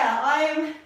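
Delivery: slightly winded, catching breath between words; talking while still puffing after the cardio. Real, not acted. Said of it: "which you can hear".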